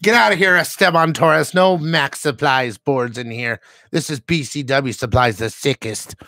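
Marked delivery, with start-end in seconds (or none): 0.0-3.6 mock shout. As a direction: jokingly throw the rival out. Mock-banishing a rival brand.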